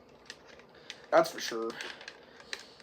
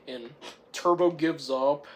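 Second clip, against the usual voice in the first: ordinary delivery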